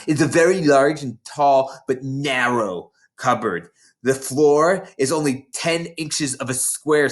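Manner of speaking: a lightly voiced big schoolgirl, gloating; bossy older girl. Hortensia sneering at the new girls, mildly voiced. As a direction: relish scaring the little ones.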